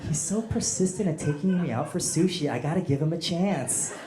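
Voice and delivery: lightly voiced gushing girl; swooning girl voice. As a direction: gush over the rich guy. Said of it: "you're telling your friend".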